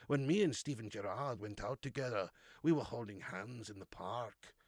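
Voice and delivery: low, soft, lingering impression voice; Brendan Rodgers. Streamer impersonating a manager gushing over Stephen Gerrard, soft low impression. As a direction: drop it low and quiet, savouring each compliment. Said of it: "I can do a bit of Brendan Rodgers".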